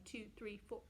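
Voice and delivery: hiccuping while counting; hiccups. Real, not acted. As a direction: talk through the hiccups. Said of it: "I have hiccups today".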